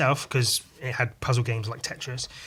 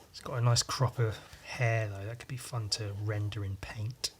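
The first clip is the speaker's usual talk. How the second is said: softer whispered thought to self; whispered aside; 3 semitones lower, 9 dB quieter than usual. Real, not acted. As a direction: whisper it like a private idea.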